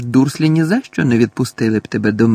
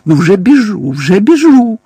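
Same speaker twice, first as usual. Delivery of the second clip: higher, louder rushed cry; panicked hurry; 7 semitones higher, 8 dB louder than usual. A narrator's reading. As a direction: yelp it while fleeing. Mundungus fleeing in panic.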